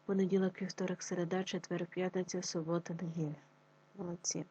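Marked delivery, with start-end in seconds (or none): 0.0-3.3 on the exhale. Shown as a demonstration. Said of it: "на видох назвіть дні тижня".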